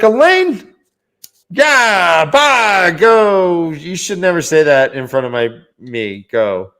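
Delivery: hammed-up boss chewing someone out; mock angry yelling. Boss yelling a cook out of the kitchen, mock angry. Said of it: "accuses Elaine of saying something".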